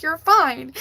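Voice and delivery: brusque insistence in a retold scolding; retold tough love. Owner to her dying cat, firm tough love. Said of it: "my third dimensional tough love was like".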